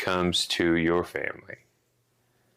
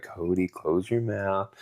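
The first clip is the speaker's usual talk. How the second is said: mom scolding; slower than usual. Retold or imitated. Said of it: "And then she'd be like".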